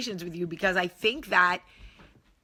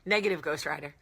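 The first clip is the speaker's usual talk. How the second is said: changed voice; 5 semitones lower, faster than usual. Acted. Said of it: "Yeah, I changed my voice".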